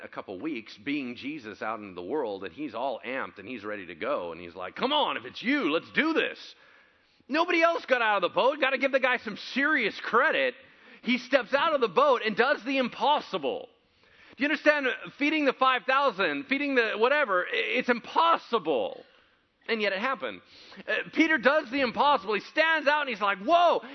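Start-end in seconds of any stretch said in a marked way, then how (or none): 4.8-23.4 loud, high, fired-up preacher; shouting from the pulpit with fervor; preaching at full force. Acted. 23.4-23.8 excited whoa. Retold or imitated. Peter stepping onto the water.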